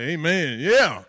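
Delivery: imitating a church crowd's loud response; lively churchgoer answering the preacher; responsive congregation. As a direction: call out an amen from the pews. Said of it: "church that be like".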